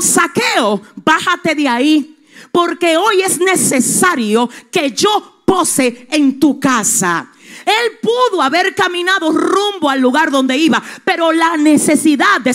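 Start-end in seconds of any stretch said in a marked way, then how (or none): 0.0-7.3 loud call to Zaqueo; Jesus calling out. Acted. Jesus calls up to Zaqueo in the tree, loud. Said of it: "Y le dijo".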